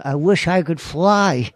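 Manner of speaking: high, slow crooning Buddy Hackett voice; Buddy Hackett impression. Actor rehearsing in the car, slow high Hackett croon. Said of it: "I was doing Buddy Hackett in the car".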